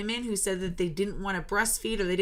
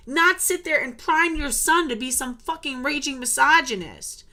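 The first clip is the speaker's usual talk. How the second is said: real anger; 2 semitones higher than usual. Real, not acted. Speaker berating the ex-wife, raised furious voice. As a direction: blast it at the ex-wife. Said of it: "it still makes me mad to this day".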